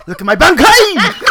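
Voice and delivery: high, loud, slow, laughing shout; weeaboo battle cry. Acted. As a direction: roar it like an anime hero powering up. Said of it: "some of your bankai, please".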